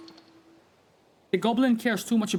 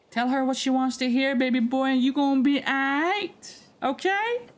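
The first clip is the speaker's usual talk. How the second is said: goblin voice; 8 semitones higher than usual. Acted. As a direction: play the goblin giving sly advice. Voices goblin advice in character.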